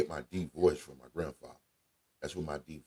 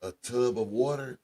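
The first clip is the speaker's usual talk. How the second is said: higher-pitched imitation of grandma; grandmother giving recipe; 6 semitones higher than usual. Grandma tells grandchild how to cook collard greens, higher imitated voice. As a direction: mimic grandma rambling through the steps.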